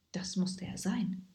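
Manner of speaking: hushed suspenseful whisper. A narrator's reading. Isa realizes the monster is near, whispering. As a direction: whisper it like a secret.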